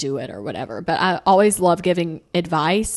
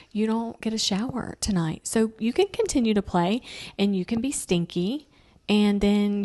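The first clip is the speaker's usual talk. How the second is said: mock calm sweetness; 2 semitones higher than usual. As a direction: sweetly taunt the kid as if it's a treat. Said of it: "psycho like that, calm".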